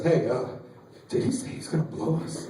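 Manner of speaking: low, hushed, hesitant question; whispering. Acted. Buddy checking what the senior said, whispering. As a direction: ask it secretly under your breath. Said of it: "Why are we whispering?".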